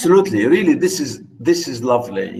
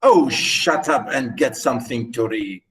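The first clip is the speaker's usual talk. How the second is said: dismissive George; 6 semitones lower than usual. Retold or imitated. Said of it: "George said".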